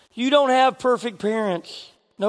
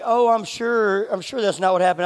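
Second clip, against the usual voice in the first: trying to be nice. Retold or imitated. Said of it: "Brian was trying to be nice".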